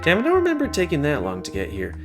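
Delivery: normal talking voice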